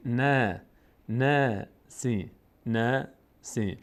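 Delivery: "نه" long and light, with a fronted ae; syllable by syllable, "نه، سی" with a thin, spread vowel. Shown as a demonstration. Teacher sounds out the word's end, "نه" held thin.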